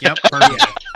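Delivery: very high, loud squeaky sarcastic praise; mock cheerful approval. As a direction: chirp it like everything's fine. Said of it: "I was like".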